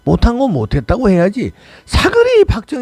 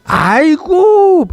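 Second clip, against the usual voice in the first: 과장된 탄식; 13 semitones higher, 4 dB louder, much slower than usual. Acted. 뻔한 취임사에 탄식.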